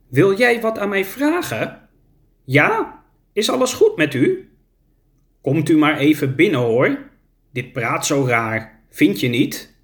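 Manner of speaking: put-on a confused old mother at the window; frail old woman.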